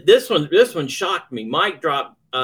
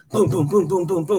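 rhythmic run of spoken booms; imitated rapid booms; 5 semitones higher than usual. Performer describes farce pace, imitated booms.

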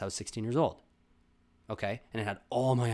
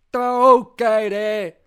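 very loud, high dopey goon; slow, eager dumb-brute voice; dim-witted henchman; 12 semitones higher, 16 dB louder, much slower than usual. Acted. Ostrich goon asking the little monkey, loud dopey voice. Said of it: "They're like one of those".

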